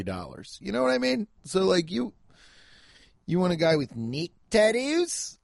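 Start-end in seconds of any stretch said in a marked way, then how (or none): 3.3-5.4 high, mocking Aussie imitation; Australian accent. Questioning the contestants' taste in men, in a high mock Australian accent. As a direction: throw it back in a put-on Australian accent. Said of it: "They're saying neck".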